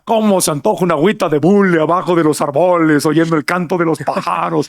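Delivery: lightly voiced norteño radio DJ, stresses shifted; norteña radio announcer. Host retelling a radio announcer's patter, lightly imitated DJ. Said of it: "un locutor de radio que era de música norteña y decía".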